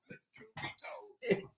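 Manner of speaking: slow mock proclamation. Host proclaiming dramatically.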